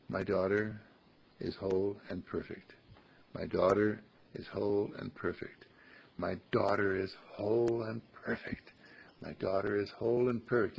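soft, steady, sincere repetition; soft heartfelt affirmation. Shown as a demonstration. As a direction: say it gently and mean it. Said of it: "say it with your heart".

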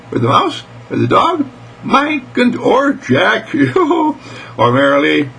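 put-on very high, giddy child voice; excited little girl. Mary Lee adds to those she loves, high and giddy. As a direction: pile up the list in a high squeal.

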